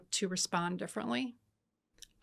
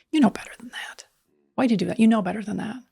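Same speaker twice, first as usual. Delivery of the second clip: scolding parent; 2 semitones higher, 8 dB louder, faster than usual. Retold or imitated. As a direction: tell the kid off like a parent.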